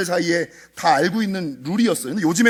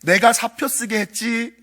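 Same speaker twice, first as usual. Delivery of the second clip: slow ghost confession; 6 semitones higher, slower than usual. Retold or imitated. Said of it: "그랬더니".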